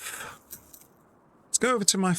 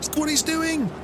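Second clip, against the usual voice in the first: mock dismay climbing higher in pitch; imitating exasperated friend; 6 semitones higher than usual. Friend watching the driver stray off line, mock dismay. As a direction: play a friend aghast, voice rising on each repeat. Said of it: "Scramble would be like".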